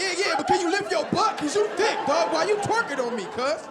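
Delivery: cramped in the car; mock crushed passenger; squished passenger complaining. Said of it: "the dude's like".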